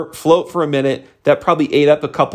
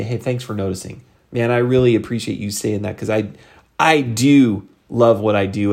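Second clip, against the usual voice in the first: sincere script demo; 4 semitones lower than usual. Shown as a demonstration. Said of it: "have a really good referral script".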